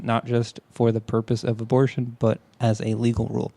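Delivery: measured, informative reading; news article read-aloud. Real, not acted.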